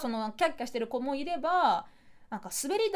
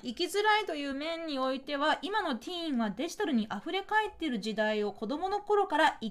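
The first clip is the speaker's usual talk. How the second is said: reading a message. Real, not acted. Reads out a listener's message.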